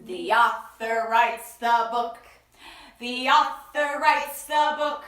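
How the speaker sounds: slow, loud teaching line; emphatic answer. Shown as a demonstration. Teaching the children what an author does. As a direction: stress each word. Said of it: "What does the author do?".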